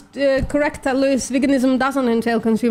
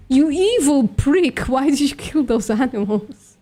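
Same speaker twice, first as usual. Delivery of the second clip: a lightly voiced God scolding Noah; angry God voice; 2 semitones higher than usual. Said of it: "He looks at Noah and he's like".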